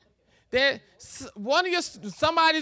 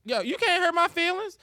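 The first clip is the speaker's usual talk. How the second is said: tough guy retort; 6 semitones higher, 4 dB louder than usual. Retold or imitated. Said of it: "acted dialogue".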